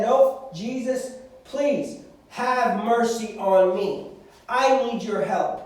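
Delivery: pleading cry. Acted. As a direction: drag out please, begging. Blind man persists despite hushing.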